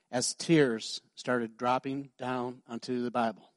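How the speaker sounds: low, slow, fading tearful read; a hint of tears as she reads, trailing off. Woman reading scripture aloud through tears, softly fading. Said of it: "So she did".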